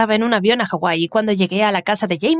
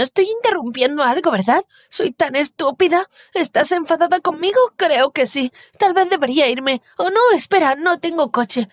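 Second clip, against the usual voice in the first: put-on higher, anxious babbling girl; nervous rambling; 5 semitones higher than usual. Jamie interrupts Liam and Ana, rambling nervously and high. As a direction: babble on in awkward self-pity.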